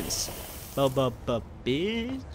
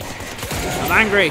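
slow, louder mock-angry declaration; angry shout; 3 semitones higher, 5 dB louder, much slower than usual. Real, not acted. Gamer frustrated with the game, slow louder mock-anger. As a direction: drag it out, fed up.

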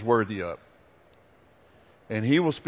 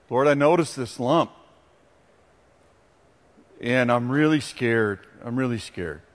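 fearful prayer; 5 semitones lower than usual. Acted. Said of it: "you say to him".

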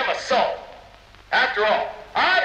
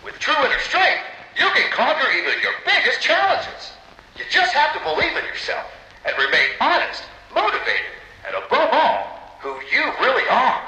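upbeat, earnest sales pitch to camera; inspirational promo read. Acted. Boss recording an uplifting message for the public, in a polished promo voice. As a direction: sell the dream like a company spokesman.

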